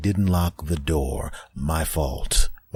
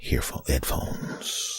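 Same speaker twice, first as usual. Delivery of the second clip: drawn-out pained wail, way higher and softer, slowed; anguished whimper; 7 dB quieter, much slower than usual. Retold or imitated. Discovering his washed headphones, a slow pained wail. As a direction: squeeze the word out in slow anguish.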